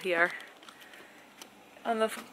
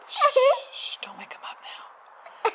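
hushed unvoiced whisper; whispering over a crib; slower than usual. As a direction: whisper so the baby stays asleep. Pretend baby asleep, hushing.

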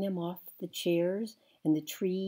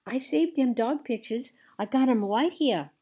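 put-on high, loud little girl; child's voice; 7 semitones higher, 9 dB louder than usual. A narrator's reading. Sweetie Pie shows her saved pictures, high and loud. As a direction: show off proudly.

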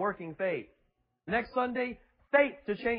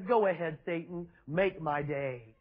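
smiling challenge; 4 semitones lower than usual. Acted. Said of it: "Jesus just smiles and says".

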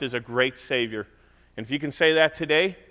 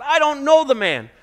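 much higher, loud cursing outburst; cursing denial; 12 semitones higher, 8 dB louder than usual. Retold or imitated. Peter cursing at his accusers, loud and angry. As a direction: spit the denial out in anger. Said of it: "he cursed and said".

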